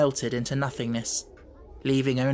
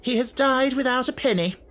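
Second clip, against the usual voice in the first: curt announcement; 9 semitones higher, 3 dB louder than usual. Acted. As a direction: state it bluntly. Headmistress continues bluntly.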